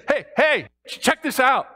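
loud, high, thrilled proclamation; excited shouting. Acted. David shouting his joy to the world, loud and high. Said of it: "It's almost like he's shouting this for the world to hear".

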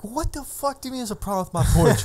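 shrill, very high outraged yell; imitating the fuming dad. Dad hearing about his porch, very high mock outraged yell. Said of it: "And he's like".

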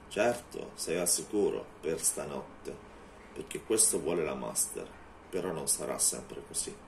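low, slow menacing vampire; a lightly voiced menacing vampire. Vampire dismisses her.

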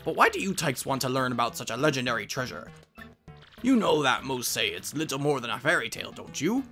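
learned professor questioning visitors; bookish professor. Acted. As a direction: play a scholarly professor.

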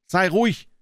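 put-on wife calling out to the sobbing girl. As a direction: call down the corridor to hush her. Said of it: "rief Misses Jennings".

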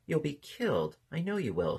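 high, understated distressed plea; tearful plea. A narrator's reading. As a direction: plead with a touch of a sob. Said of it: "she sobbed".

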